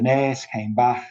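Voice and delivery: slow demonstration in a Scouse accent. Shown as a demonstration. Lecturer giving his best Scouser example, Scouse accent. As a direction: Liverpool vowels and fricative k, shown slowly. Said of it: "we know you're a Scouser".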